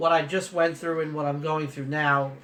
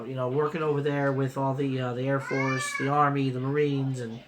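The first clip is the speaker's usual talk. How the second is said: choked up; 4 semitones lower than usual. Real, not acted. Recalling friends lost in Africa.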